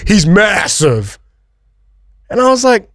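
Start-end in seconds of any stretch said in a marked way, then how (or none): 0.1-1.2 MASSIVE stretched out long and slow; imitating a friend, dragging out "massive"; drawn-out emphasis. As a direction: lean hard and long on "massive". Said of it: "Don't say it like that".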